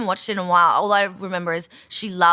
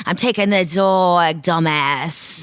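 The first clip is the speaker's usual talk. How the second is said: louder voice with strong S's; Jennifer Coolidge impression; 4 dB louder, slower than usual. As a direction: drawl it with hissy S's. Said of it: "really strong S's".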